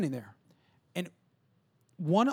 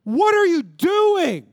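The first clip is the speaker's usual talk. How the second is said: baffled soldiers; 12 semitones higher, 10 dB louder, much slower than usual. Retold or imitated. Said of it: "he's like".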